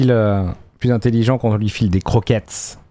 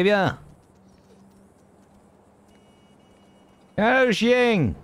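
high voice to dog; 7 semitones higher, slower than usual. Acted. Talking to the dog in game.

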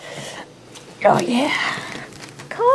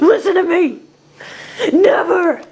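angry outburst; 4 semitones higher, 4 dB louder than usual. Acted. Scolding Zach over the snacks.

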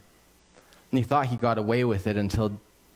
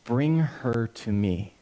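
king's command; 2 semitones lower, slower than usual. Retold or imitated. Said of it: "he says".

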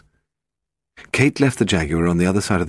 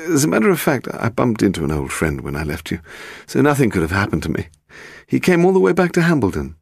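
lightly voiced nervous publisher, often pitched up; evasive publisher; 5 semitones higher than usual. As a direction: explain it away a little evasively.

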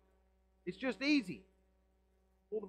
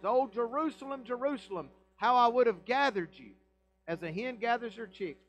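impassioned lament; 5 semitones higher, 4 dB louder than usual. Acted. Preacher quoting Jesus' lament.

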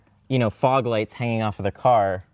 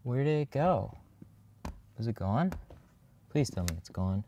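tense, barely-voiced words on held breath; holding breath; 9 dB quieter than usual. Real, not acted. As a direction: speak while holding your breath. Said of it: "I'm just holding my breath right now".

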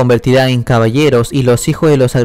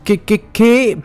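high, stammered disbelief; trembling; 8 semitones higher, slower than usual. A narrator's reading. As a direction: stammer in acted alarm. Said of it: "Comienza a temblar". (tembloroso y agudo)

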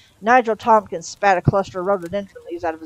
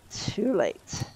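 hushed, softer afterthought; ominous echo; 2 semitones higher, 5 dB quieter than usual. A narrator's reading. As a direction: drop the volume for a foreboding echo. Narrator's ominous echo of the phrase.

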